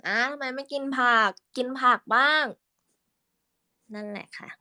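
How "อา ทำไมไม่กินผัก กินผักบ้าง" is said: voice for uncle. Shown as a demonstration. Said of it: "คุยกับอา".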